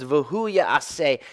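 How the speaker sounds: V'hu ya'aseh, slow and careful in Hebrew; slow emphatic Hebrew reading; Hebrew phrase said slowly. Shown as a demonstration. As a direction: sound out V'hu ya'aseh deliberately. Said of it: "There's an emphatic, says".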